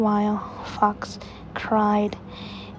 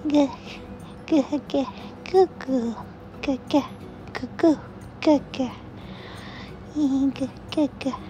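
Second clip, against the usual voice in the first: put-on baby babble; 5 semitones higher, 3 dB quieter than usual.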